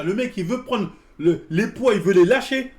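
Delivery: telling it through laughter; laughing. Real, not acted. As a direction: laughs while describing the drop. Laughing while telling the story. (en riant)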